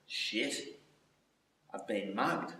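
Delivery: soft whispered realisation; whispered panic. Retold or imitated. Injured man realising he was mugged, whispered shock. Retold frightened thought after injury.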